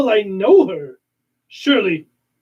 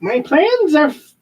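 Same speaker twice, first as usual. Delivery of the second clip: Skeletor voice; 5 semitones higher than usual. Acted. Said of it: "no, I'm Skeletor".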